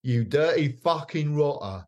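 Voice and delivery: swearing guitarist. Retold or imitated. A guitarist swearing on TV.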